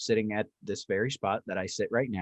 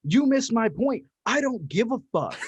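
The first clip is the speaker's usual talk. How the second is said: mock comeback; 10 semitones higher than usual. Telling off the women, mild mock anger. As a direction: brush them off, amused. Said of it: "And I go".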